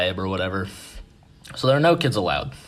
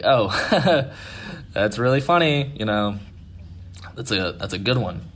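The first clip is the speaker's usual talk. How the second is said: retold panicking; 3 semitones higher than usual. Startled listeners to the boy, mildly panicky retold brush-off. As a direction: imitate laughing off something unsettling. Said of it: "we kinda start panicking".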